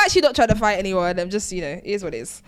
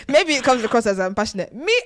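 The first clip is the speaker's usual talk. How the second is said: Nigerian accent. Real, not acted. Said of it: "Why are you speaking in a Nigerian accent?".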